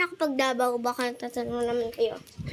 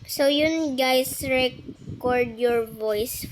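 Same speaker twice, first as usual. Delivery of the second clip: slowed voice changer; slower than usual. Pretend. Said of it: "Voice changer".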